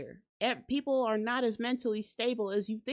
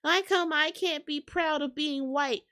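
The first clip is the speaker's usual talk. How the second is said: mock outraged scream; 4 semitones higher than usual. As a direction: whine it like a caught intruder crying foul. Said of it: "then y'all wanna scream".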